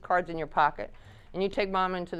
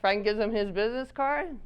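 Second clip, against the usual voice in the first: normal talking voice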